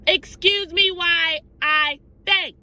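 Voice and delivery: high, loud and slow, playing at fainting; hammed-up overwhelmed fan; a theatrical faint, drawn out; mock swoon. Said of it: "I said".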